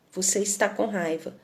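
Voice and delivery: put-on soft, firm words to an angry child; firm but tender. Shown as a demonstration. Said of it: "falando com firmeza, mas com carinho". (firme mas carinhoso, baixinho)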